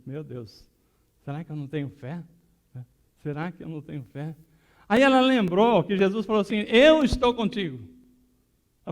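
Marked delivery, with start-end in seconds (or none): 0.1-4.3 soft, deflated murmur to herself; dejected self-doubt. Retold or imitated. Woman questioning her faith after failing, soft and deflated. 6.7-7.8 high, loud ringing promise; emphatic assurance. Retold or imitated. Jesus promising the woman his presence, loud and emphatic.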